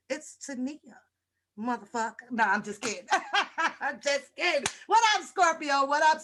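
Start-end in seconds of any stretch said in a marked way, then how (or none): 0.1-2.3 "It's Tania" said softer, stress on NEE; softer, coaxing "Tania"; real soft. Shown as a demonstration. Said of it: "you gotta say it real soft".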